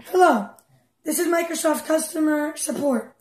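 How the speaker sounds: lightly voiced customer support recording; mock support recording. Imitating the Microsoft support line for the troll, lightly mock recording. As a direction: read it like a bored hold message. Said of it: "They would say".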